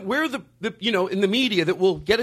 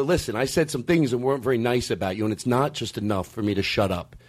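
sincere apology; 10 semitones lower than usual. Acted. Voices Bob's ideal apology.

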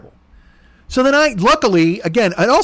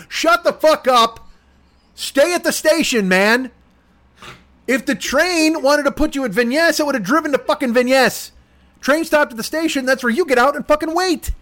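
raised, pitch up, fed-up rant; exasperated rant; 6 semitones higher than usual. Real, not acted. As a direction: lay into him, exasperated. Ranting at friend.

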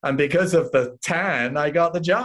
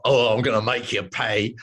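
tough cockney threat. Retold or imitated. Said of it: "far from saying".

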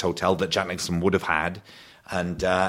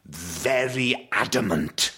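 dad's posh voice; 3 semitones higher, much slower than usual. Retold or imitated. Son describing his dad in the dad's posh voice. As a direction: mimic a Welsh dad going posh. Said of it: "he puts on a rather posh voice".

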